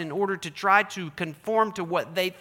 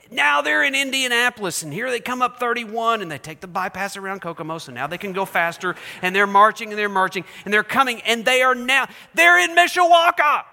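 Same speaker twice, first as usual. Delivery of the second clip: rising louder and higher as the army nears; building alarm; 4 semitones higher, 6 dB louder than usual. Pretend. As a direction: build it up like the enemy is at the gates.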